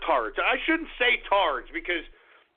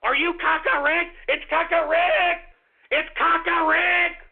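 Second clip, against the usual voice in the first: higher, gushing mock excitement; hammed-up squeal over the smell; sneering impression of a giddy fan; 5 semitones higher than usual. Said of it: "will be like".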